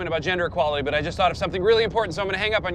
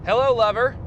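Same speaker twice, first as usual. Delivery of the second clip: flirty; 6 semitones higher, 4 dB louder than usual. Acted. Flirty greeting on phone.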